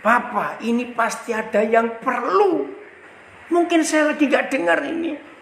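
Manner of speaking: retold urgent plea, pitch climbing; mendesak Tuhan. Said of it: "Saya desak Tuhan". (mendesak dengan nada makin tinggi)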